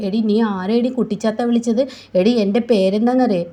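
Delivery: loud offended retort; indignant shout. Acted. Veda shouting back at Nandini, offended. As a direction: throw the insult back.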